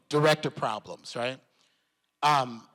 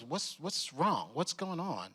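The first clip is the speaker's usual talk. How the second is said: softer, slow, smooth concerned murmur; soft Irish lilt; 6 dB quieter than usual. Retold or imitated. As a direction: coax him gently like a kind mentor. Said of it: "soft, deep Irish lilt".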